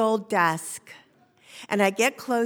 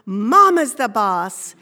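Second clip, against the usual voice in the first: shouted slowly; 11 dB louder, slower than usual. Retold or imitated. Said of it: "He goes".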